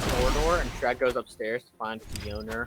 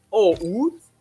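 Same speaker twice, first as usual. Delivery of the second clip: higher coy voice; mock innocent; 7 semitones higher, 6 dB louder than usual. Fiona letting the frog balloon go, coy voice. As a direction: say it sweetly caught out. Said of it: "that's like".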